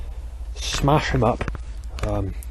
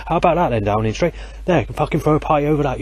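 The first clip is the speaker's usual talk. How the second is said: higher, sneering challenge; mocking taunt; 5 semitones higher than usual. Real, not acted. Man taunting Downing Street over his graffiti, sneering. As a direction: throw it at them like a dare.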